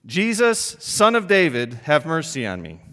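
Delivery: loud, high pleading call; crying out. Acted. Beggar calling to Jesus from the roadside, loud plea. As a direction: call out to him in desperation. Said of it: "He cries out".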